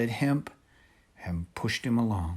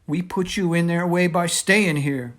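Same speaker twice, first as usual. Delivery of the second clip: anguished cry; 7 semitones higher, 8 dB louder than usual. A narrator's reading. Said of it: "Pink cried".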